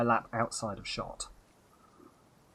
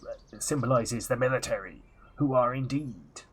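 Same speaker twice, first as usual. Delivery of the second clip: put-on Transylvanian pirate accent. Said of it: "this accent".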